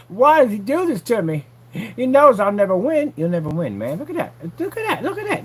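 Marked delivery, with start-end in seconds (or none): 0.1-3.1 high, loud whining of a beaten rival; mock whiny rival. Voicing rival's lament. 4.0-5.4 mock awe.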